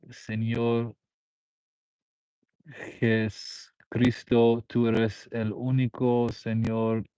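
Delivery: slow, drawn-out plea to God; Spanish prayer. Real, not acted. Streamer praying in Spanish for a viewer, slow prayer. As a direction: pray slowly, stretching out each phrase.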